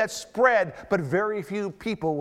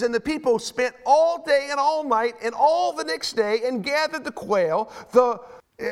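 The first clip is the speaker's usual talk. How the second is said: slow, raised-pitch Bible reading; scripture reading; 5 semitones higher, 3 dB louder, slower than usual. A narrator's reading. Preacher reading the quail story to his congregation, slow scripture reading. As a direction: read it out emphatically, stretching key words.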